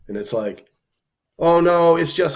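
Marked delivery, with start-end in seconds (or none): 1.4-2.4 high, louder mocking agent voice; squeaky protest of a fussing official; mock TSA agent. Dad mocks the TSA agent protesting, high mocking voice.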